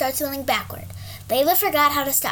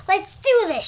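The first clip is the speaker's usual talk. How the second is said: eager louder call; girl yelling to her snoring friend; 6 semitones higher, 4 dB louder, slower than usual. Acted. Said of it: "she yelled".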